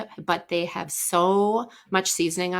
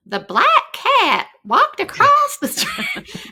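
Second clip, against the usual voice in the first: much higher, slow, carefully spelled-out sentence; slow spelling-test dictation; 8 dB louder, slower than usual. Retold or imitated. Tutor dictating a spelling-test sentence to little girl, slow and high. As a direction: read it out slowly to a young pupil. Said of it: "let me give it to you in a sentence".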